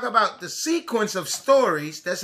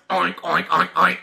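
pig oinks; 4 semitones lower than usual. Acted.

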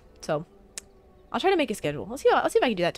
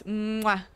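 smacking air kiss; goodnight kiss. Real, not acted. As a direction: blow a kiss into the mic. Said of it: "here's your good night kiss".

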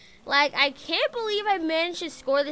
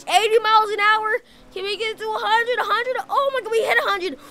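thrilled; 7 semitones higher, 4 dB louder than usual. Real, not acted. Speeding up in new car.

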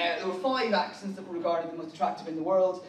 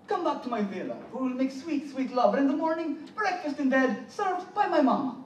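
mock Italian accent rising higher to the end; 5 semitones higher than usual. Comedian offering an Italian chat-up line to the crowd, mock Italian accent. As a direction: woo them in a hammed-up Italian lilt. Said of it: "an Italian chat up line would be".

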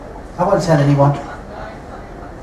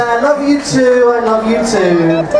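sweet lovey voice; 3 semitones higher than usual. Shown as a demonstration. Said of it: "Kiss your partner and say".

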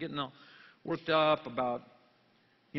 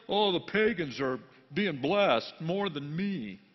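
mock whining; 3 dB louder, slower than usual. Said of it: "Asaph was bumming".

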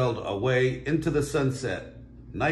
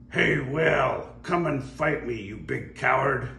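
challenging shout; 4 semitones higher, 3 dB louder than usual. Acted. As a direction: call the whale out to fight. Pirate challenges the whale.

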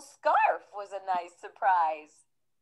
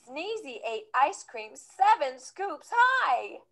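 ordinary delivery, nothing marked

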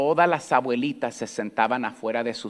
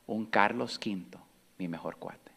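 hushed whisper; 2 semitones lower, 8 dB quieter than usual. Retold or imitated. Grandma quoting his words.

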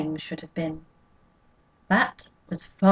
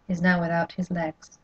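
usual speaking voice

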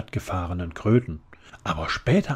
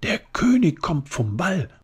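loud blurt, pitched much higher; 11 semitones higher, 6 dB louder than usual. A narrator's reading. Flora blurts the news to Todd, loud and high. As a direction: burst out with the news. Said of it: "platzte Flora heraus".

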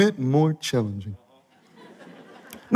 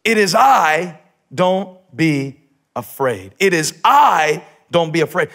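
Jesus reassuring; 3 dB louder, slower than usual. Acted. Jesus calling to the disciples in the storm, loud then calm. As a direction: call out, then settle them gently. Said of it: "in Greek it's".

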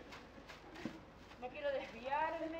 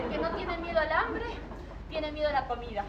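loud declamation; 6 dB louder than usual. Acted. Declaiming to audience.

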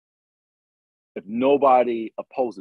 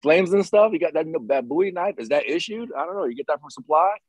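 put-on higher, marveling naive kid; wide-eyed awe; 4 semitones higher than usual. Younger self marveling at Rambo's special forces gear, wide-eyed awe. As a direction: voice a mildly awed, curious rookie.

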